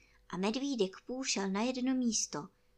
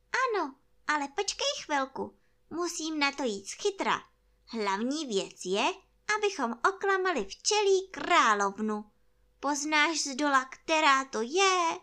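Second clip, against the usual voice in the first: higher bear voice, louder toward the question; scheming toy bear; 5 semitones higher, 5 dB louder than usual. Acted. Bear plots to fool the queen bee, high earnest voice. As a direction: plot it earnestly, pitched up.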